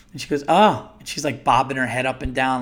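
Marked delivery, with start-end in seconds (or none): 0.5-0.9 lightly mocked, higher-pitched reaction; over-the-top cashier. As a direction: imitate an overly interested cashier. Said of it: "like, overly".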